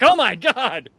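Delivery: high, loud "Oh my God"; a flustered young man gaping at a girl; mock stunned gasp. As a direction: blurt it out, flustered.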